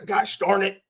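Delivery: mild mock angry outburst, no cursing; mock mad. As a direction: imitate a clean-mouthed leader losing it. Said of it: "they get mad and they go".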